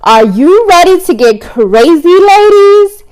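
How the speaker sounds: loud party scream. A narrator's reading. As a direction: yell it at the door.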